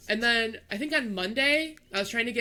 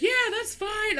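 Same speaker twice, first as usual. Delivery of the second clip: construction worker; 13 semitones higher than usual. Retold or imitated. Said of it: "And he was like".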